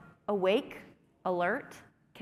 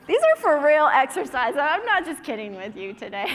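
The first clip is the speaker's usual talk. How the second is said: laughing; 5 semitones higher, 8 dB louder than usual. Real, not acted. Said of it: "You're laughing".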